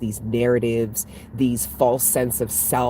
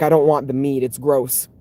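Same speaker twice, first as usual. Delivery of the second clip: body's voice; 5 dB louder than usual. Retold or imitated. Body voiced as a character.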